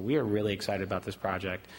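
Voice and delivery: flat, deadpan excitement; monotone. Real, not acted. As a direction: say it dead flat. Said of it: "I'm sorry if I sound very monotone".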